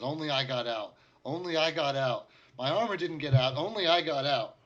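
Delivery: high, loud, haunted insisting; cling to the one fact, terrified; frightened insisting. Acted. Survivor insists to the party, high and frightened.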